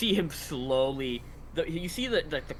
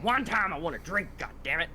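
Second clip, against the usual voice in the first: angry shout; 5 semitones higher than usual. Acted. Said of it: "And you just hear".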